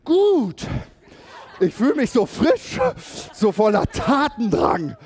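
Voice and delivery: high, loud and laughing; imitating a giddy, delighted churchgoer; elated. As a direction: bubble over with fresh energy. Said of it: "Er so".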